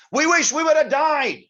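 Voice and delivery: high, loud wail of despair; intense lament. Acted. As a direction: cry out that death was better. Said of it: "it's pretty intense".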